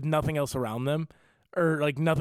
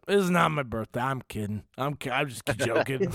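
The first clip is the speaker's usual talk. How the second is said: put-on drunk regular. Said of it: "a regular who's just piss drunk".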